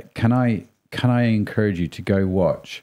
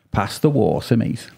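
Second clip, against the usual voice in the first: mock Scouse with "water" as "waw-sa"; Scouse accent. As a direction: imitate a Liverpudlian mate. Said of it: "you've got Scouse English".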